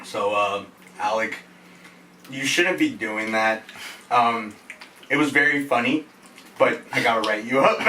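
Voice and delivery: lightly voiced awkward manager; calm manager voice. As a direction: break it to him gently. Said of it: "he's like".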